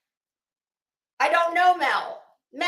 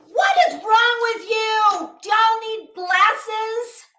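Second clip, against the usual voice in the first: exasperated disbelief; 7 semitones higher, 4 dB louder, slower than usual. Real, not acted. Exasperated rant at viewers.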